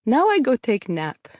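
lightly voiced father in a Russian accent; heavy Russian accent. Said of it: "said in a heavy Russian accent".

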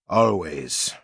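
put-on cocky drunken drawl; slurred, sure of himself; drunkenly overconfident. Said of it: "drunkenly overconfident".

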